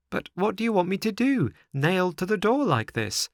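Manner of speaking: put-on stuck boy losing patience; exasperated puppet boy. A narrator's reading. Pinocchio exasperated.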